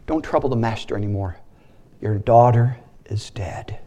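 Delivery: quiet messenger bearing grief; hushed bad news. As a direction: break the news gently, barely voiced. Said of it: "there's people come and says".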